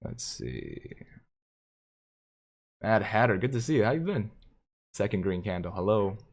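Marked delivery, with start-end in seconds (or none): none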